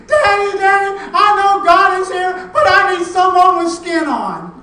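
put-on high, very loud little-girl scream; child's pleading scream. Little girl calling Dad for someone with skin on, screaming. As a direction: scream it to Dad, begging for company. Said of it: "the little girl screamed out".

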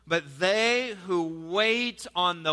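slow, measured Bible reading; solemn reading of the verse; scripture reading. Acted. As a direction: read it out like scripture from the pulpit. Reads Isaiah aloud.

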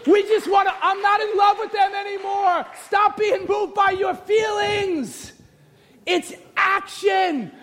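high, drawn-out preaching shout. Real, not acted. Preacher shouting to the church about feelings and actions, full-force preaching. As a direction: preach it hard with long, high words.

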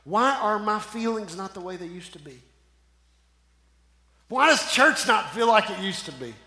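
mildly pleading questions of a struggling believer. Retold or imitated. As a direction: voice the doubting young Christian's questions, lightly. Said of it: "you will hear things like this".

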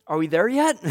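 put-on loud, high child's pester; impatient kid. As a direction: pester Dad from the back seat. Voices himself as impatient child.

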